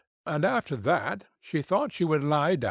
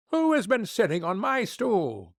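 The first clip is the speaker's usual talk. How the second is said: high, lightly voiced little dwarf; a small fellow, puzzled at his stool; 7 semitones higher than usual. First dwarf to his brothers, a high puzzled voice.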